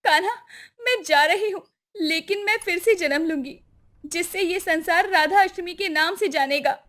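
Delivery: high, sorrowful farewell; mildly tearful. Acted. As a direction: part sadly from your beloved. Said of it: "Radha जी रोते हुए कहती है".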